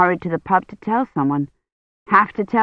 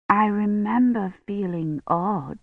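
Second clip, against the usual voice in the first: faint and slow; 5 dB quieter, slower than usual. Acted. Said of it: "strange, frightened look".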